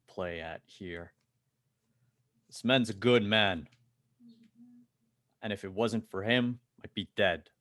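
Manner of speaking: measured start, growing loud and emphatic; big guy standing firm. Acted. Big guy defends his friends to a corpo, standing firm. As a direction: press each point home forcefully.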